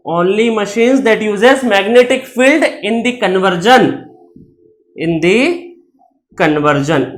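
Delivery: very slow, word by word; slow dictating pace; slow dictation. Shown as a demonstration. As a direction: dictate it slowly for notes. Teacher dictating definition slowly.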